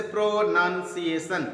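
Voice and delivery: "प्रोनाउंसिएशन" slowly divided into its parts; teacher's syllable demo of "प्रोनाउंसिएशन"; broken into syllables. Shown as a demonstration. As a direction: sound out "प्रोनाउंसिएशन" chunk by chunk. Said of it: "three syllable में तोड़ दिए".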